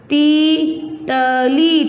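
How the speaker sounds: तीतली very slowly, as ती...त...ली; syllable by syllable. Shown as a demonstration. Teacher dictating for pupils to write, syllable by syllable. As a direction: dictate तीतली one held syllable at a time. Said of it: "तो आप शब्द लिखोगे इसका".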